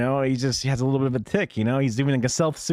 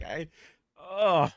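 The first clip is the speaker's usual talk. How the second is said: usual speaking voice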